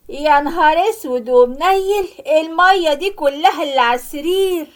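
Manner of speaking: daughter yells at her mother over the soaked bed, loud and scolding; yelling at mother. Acted. Daughter shouts at her mother over the wet bed. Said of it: "قعدت تزعق فيا".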